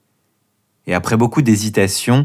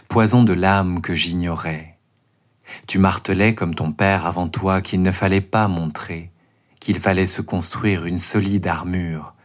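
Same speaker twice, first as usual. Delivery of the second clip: declaiming a poem. Acted. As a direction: recite it like a stage poem. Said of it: "déclamer une version courte de ce poème".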